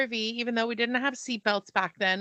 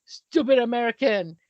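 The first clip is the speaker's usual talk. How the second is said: mock-scornful put-down, a shade louder in another voice; scornful local; 5 dB louder than usual. Roman stranger scoffing at a clueless tourist, mock-scornful. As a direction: sneer it like a fed-up local. Italian man scoffs at her.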